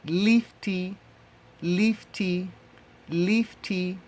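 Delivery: lifti drilled three times, quietening by the end; Swahili model word. Shown as a demonstration. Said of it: "you would say".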